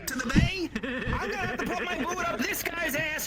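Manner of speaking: put-on Jersey accent. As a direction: rant like a hot-headed New Jersey guy. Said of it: "'Cause I'm bringing out my Jersey accent".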